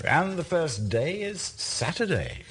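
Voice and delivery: slow, suspenseful announcement; drawn-out reveal of the first ball; slow lottery reveal. Acted. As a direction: draw it out like a lottery result. Drawing balls like lottery.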